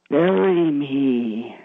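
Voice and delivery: slow, drawn-out ghostly plea; scary voice. Retold or imitated. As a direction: moan it slowly like a ghost. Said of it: "In a really scary voice".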